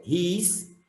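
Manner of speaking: "Riscando" split as ris, can, do; syllable by syllable. Shown as a demonstration. Teacher separating grammatically, "Riscando" syllable by syllable. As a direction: pause between the three syllables of "Riscando". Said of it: "Eu separei gramaticalmente".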